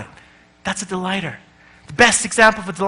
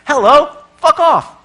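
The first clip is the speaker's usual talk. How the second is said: loud, higher hello-fuck-off; blunt brush-off; 6 semitones higher, 6 dB louder, slower than usual. Retold or imitated. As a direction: bark it out as one rude line. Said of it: "the interaction is".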